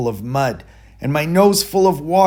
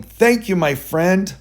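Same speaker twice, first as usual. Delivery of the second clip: calling out; 5 semitones higher than usual. Acted. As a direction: call up gratefully to a friend.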